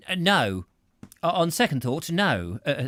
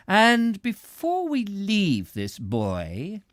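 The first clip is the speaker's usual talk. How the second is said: slow deliberate; 8 semitones higher, 4 dB louder, much slower than usual. A narrator's reading.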